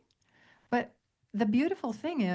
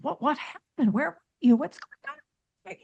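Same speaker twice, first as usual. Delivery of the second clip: rising higher and louder, frantic and pushy; frantic questioning; 6 semitones higher, 4 dB louder than usual. Retold or imitated. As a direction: crowd her with anxious questions. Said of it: "we're in her face going".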